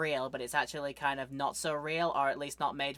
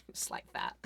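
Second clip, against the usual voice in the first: whisper; 10 dB quieter than usual. Real, not acted. Whispered aside after impression.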